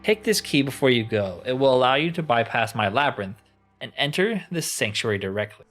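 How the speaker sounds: mildly imperious, giving orders; a touch of grand impatience; lightly voiced annoyed enchanter. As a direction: play a weary master issuing a task, understated. Voices crystal enchanter in game.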